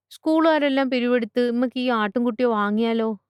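put-on high child's voice, pleading; hopeful little girl. Schoolgirl asks teacher to buy the goat, hopeful child voice. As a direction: pitch it up like a small child proposing.

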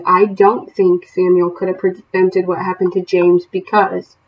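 slow, clear example sentence; slow model answer. Shown as a demonstration. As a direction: spell it out slowly for students. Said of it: "So it could be".

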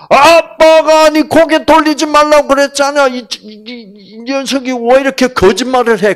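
high, loud stern scolding; father rebuking his daughter. Pretend. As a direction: scold the lying child sharply. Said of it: "이 아빠가 어떻게 해야 되겠어?".

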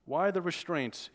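heavy Intaki lilt, slowly; thick Intaki accent. Acted. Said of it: "with a thick Intaki accent".

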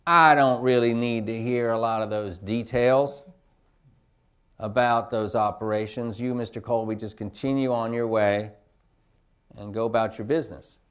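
a senator brushing off the briefing, in a hammed-up Southern accent; bad Southern accent. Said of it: "I don't mean to bore you with my bad Southern accent".

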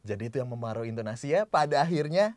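quick run-up to a punched "pada akhirnya"; penekanan di akhir. Shown as a demonstration. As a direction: rush through, then hit "pada akhirnya". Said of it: "udah berapa intonasi barusan". (tekankan "pada akhirnya" di ujung kalimat)

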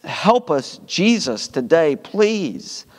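pastoral prayer. Acted. Pastor praying for the congregation after the sermon, earnest prayer. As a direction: pray sincerely over the people.

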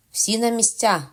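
captain ordering his men to their posts, commanding. Acted. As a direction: bark the order to the crew. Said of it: "наказав капітан".

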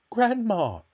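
high, loud horrified shriek. A narrator's reading. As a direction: shriek it in alarm. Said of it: "shrieked Missus Cranky".

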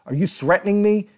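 retold screaming accusation. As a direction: shout it back in disbelief. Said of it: "Grossman screamed".

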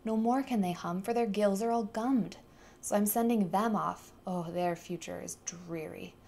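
snapping Lorax. Acted. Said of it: "snapped the Lorax, his dander was up".

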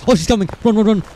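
panicked high yell; yelling while running away. Real, not acted. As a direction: shout to flee, high and loud. Ghost hunts, players flee.

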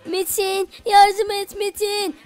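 slow, drawn-out cry for help; calling for help. Acted. Attacked girlfriend calling Metin for help, pleading cry. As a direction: call out for rescue, stretching the words.

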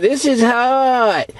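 drawn-out mock complaint; mimicking complainers, long slow vowels; imitated complaint. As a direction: stretch it out like someone complaining. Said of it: "You heard people say that all the time".

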